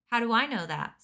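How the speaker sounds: loud scornful retort; angry retort. Acted. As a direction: throw it back angrily. Chugger rejects Dune's denial.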